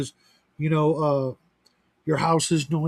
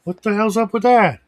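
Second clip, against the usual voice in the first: higher, louder mock exasperation; retold bafflement; 5 semitones higher, 5 dB louder than usual. Reacting to parents rereading the same book, mock bafflement. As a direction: recount your own baffled outburst, pitched up and louder. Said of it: "I was like".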